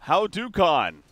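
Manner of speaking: "Hadouken" called out loud and high as "how-doo-kahn"; deliberate mispronunciation. Shown as a demonstration. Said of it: "I'm gonna go".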